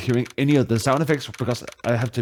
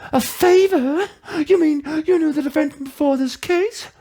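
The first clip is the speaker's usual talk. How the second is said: much higher, lightly surprised; surprised mentor. Acted. Mentor surprised rookie knows the defendant, high surprised. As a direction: ask it with raised eyebrows.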